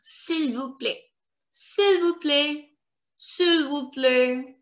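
"S'il vous plaît" drawn out, final S and T silent; silent final letters. Shown as a demonstration. French teacher showing learners silent letters, "S'il vous plaît" with endings dropped. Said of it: "S is going to be silent and T is going".

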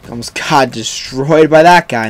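ordinary talk, nothing marked

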